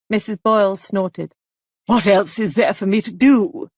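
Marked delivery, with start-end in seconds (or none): 1.9-3.7 a loud, sharp demand. A narrator's reading. Missus Boyle snapping back at the visitor, loud demand. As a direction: throw the question back at him. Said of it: "she demanded".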